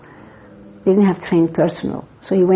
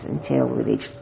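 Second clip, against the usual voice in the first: flowery Eastern way; 5 semitones lower, 4 dB quieter, slower than usual. Retold or imitated. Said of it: "in this very flowery Eastern way".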